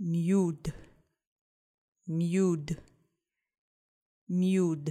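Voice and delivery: slow, deliberate mude with a clearly sounded d. Leading a group repeating a word three times together: said slowly with clear d. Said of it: "we're going to say it slow with the d letter".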